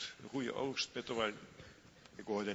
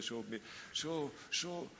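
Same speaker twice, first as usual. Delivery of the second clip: ordinary delivery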